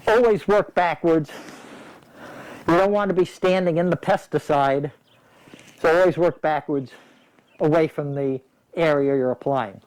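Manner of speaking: talking through a respirator mask; words muffled behind a face mask. Real, not acted. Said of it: "I hope you can hear me through this mask".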